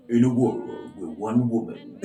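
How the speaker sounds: epic trailer narrator; movie trailer voice. Acted. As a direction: announce it like a blockbuster trailer. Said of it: "my trailer voice".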